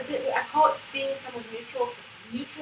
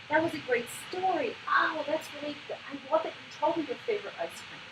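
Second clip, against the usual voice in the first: higher-pitched, appreciative praise; celebrating; 4 semitones higher than usual. Shown as a demonstration. Coach shows responding to everything she does, celebrating. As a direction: praise a child's story with delight. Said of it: "find things to celebrate about the interaction".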